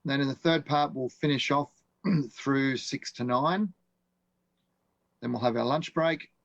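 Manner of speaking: hoarse, croaky voice; speaking through a croaky throat. Real, not acted. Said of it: "Sorry about my croaky throat".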